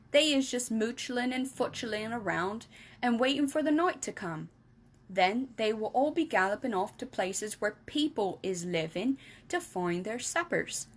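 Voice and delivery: lightly voiced friendly giant explaining; BFG voice. Giant explaining to Sophie, lightly voiced.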